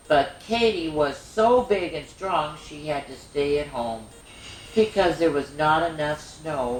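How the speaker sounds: gentle storybook narration; reading to children. Acted. Reads Katie story aloud.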